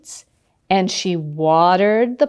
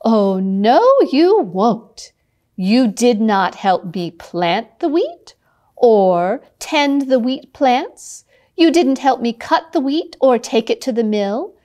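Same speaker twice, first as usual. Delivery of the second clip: hen scolding; 3 semitones higher than usual. Acted. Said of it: "the little redhead said".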